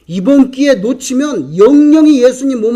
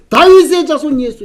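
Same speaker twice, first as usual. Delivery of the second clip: higher-pitched, mildly shouted call; 5 semitones higher, 4 dB louder than usual. Retold or imitated. Blind man calling Jesus without a second thought, calling out. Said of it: "이렇게 했습니다".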